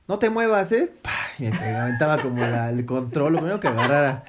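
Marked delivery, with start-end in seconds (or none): 0.1-0.9 mock yell. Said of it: "era de".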